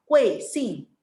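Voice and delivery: "Kuing Sing" with each syllable dropped sharply from high; angry falling fourth tone. Shown as a demonstration. Teacher shows pupils the angry tone, "Kuing Sing" falling hard. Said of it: "kita akan seperti orang marah".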